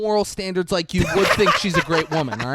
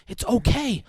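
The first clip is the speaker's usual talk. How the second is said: mock panic; 7 semitones higher than usual. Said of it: "She's panicking and goes".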